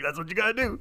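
blunt mock teacher. Imitating his teacher's blunt answer to his outburst. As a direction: mimic her matter-of-fact verdict. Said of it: "Just sort of like".

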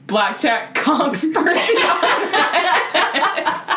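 slow, drawn-out quote. Retold or imitated. Host mocking co-host's summary, slow and drawn out. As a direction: stretch each word out slowly. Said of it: "four seconds to say".

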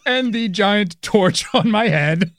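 slow, lightly voiced goat demon; Baphomet voice. Cohost joining the Baphomet bit, slow and mock-grand. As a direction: drag it out like a mock idol. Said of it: "That's how Baphomet sounded".

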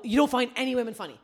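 loud, high indignant re-enactment; retold angry accusation.

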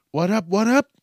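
loud, high, drawn-out show opener; stretched-out host hype. Acted. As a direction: greet the crowd like a party MC.

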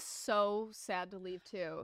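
slow, hushed whisper. Real, not acted. Co-host whispering sadly about Flo leaving, slow hushed whisper. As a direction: drop to a whisper, slowly.

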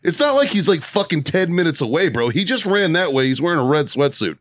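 retold incredulous rant; exasperated protest. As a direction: argue the obvious with a useless cop. Retold exasperated argument with cop.

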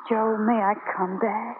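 soft and small; timid plea. Acted. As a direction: ask almost afraid. Taffy asks humbly.

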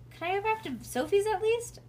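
put-on high-pitched child's plea; pleading child. A narrator's reading. Bean asks mother to let her go back, high pleading. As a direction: beg for one last concession.

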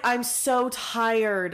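slow, drawn-out tired echo; weary quote. Retold or imitated. Reader echoing the heroine's exhausted line, slow and weary. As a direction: drag every word, exhausted. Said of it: "When she's like".

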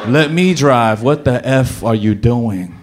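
lightly voiced confused groggy mumble; a hint of half-awake grogginess. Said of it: "very confused, groggy voice".

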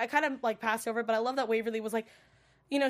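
normal talking voice

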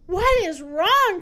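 the hippo baffled by the laughter; upset cry. Acted. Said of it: "cried the hippopotamus".

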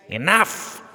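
high, loud royal shout; shouting king. Acted. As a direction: silence the room with a yell. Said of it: "the king shouted".

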